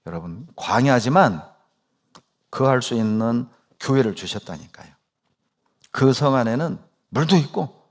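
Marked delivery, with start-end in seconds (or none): none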